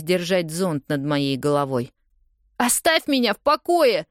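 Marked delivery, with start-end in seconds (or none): 2.6-4.1 much higher and louder, pushing him away; shouting. A narrator's reading. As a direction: yell it at him to leave you alone. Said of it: "кричу я".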